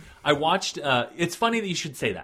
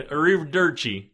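mock Italian; 4 semitones higher, 5 dB louder than usual. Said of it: "do you think that you're fooling someone".

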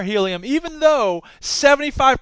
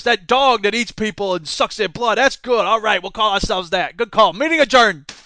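hammed-up scheming executive, louder; louder smug executive voice; mock villain boardroom; 4 dB louder than usual. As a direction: play a cartoon villain planning. Acted villain board meeting skit.

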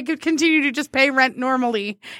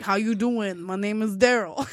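put-on New York accent; 4 semitones lower, 4 dB quieter than usual. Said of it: "he sounds like he's from New York".

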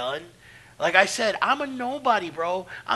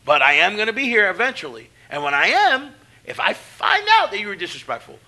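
louder, stern warning; retold threat; 3 semitones higher, 6 dB louder than usual. Veteran warning the rookie about disrespect, loud and stern. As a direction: lay down the law hard.

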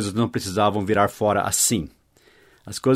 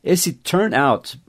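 ordinary talk

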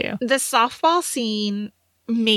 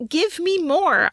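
eager plea; 8 semitones higher, slower than usual. Retold or imitated. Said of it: "I wrote".

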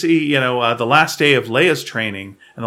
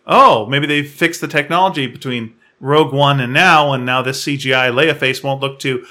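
laughing disbelief; 4 dB louder than usual. Retold or imitated. Mocking viewer reaction.

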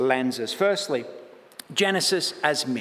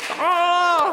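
surprised oh; 14 semitones higher, 5 dB louder than usual. Real, not acted. Sudden exclamation mid-sermon.

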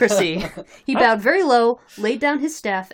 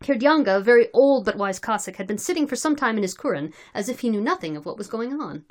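measured, articulate read-aloud narration; story narration. Acted. Reader telling friends of drunken Cossacks, story narration. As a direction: narrate the tale in a steady reading voice.

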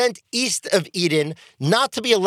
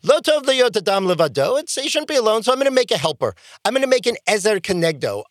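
voicing God; 5 semitones higher, faster than usual. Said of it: "the Holy One says".

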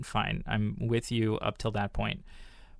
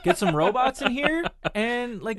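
exasperated rant; 12 semitones higher, 4 dB louder than usual. Retold or imitated. Voicing exasperated alien Klaatu.

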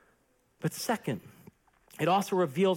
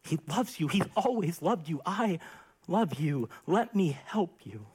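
gently. Retold or imitated. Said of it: "and he said gently".

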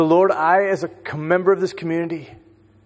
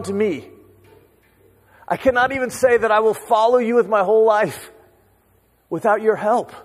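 fervent prayer; 4 semitones higher than usual. Real, not acted. Prayer rising over the music.

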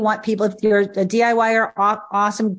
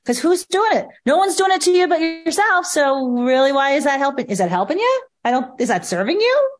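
exasperated challenge; 4 semitones higher than usual. Retold or imitated. Coach challenging people who beat themselves up, exasperated. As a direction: push them to drop the hair shirt, climbing higher. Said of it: "I always say to people".

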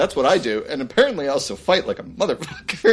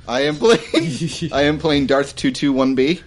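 muffled behind a mask; muffled grim plague doctor; 2 semitones lower than usual. Real, not acted. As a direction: speak through a mask. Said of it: "That's gonna sound really weird".

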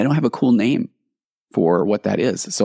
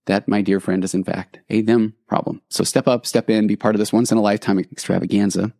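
carnival barker. Pretend. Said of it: "Back to your regularly scheduled carnival barker".

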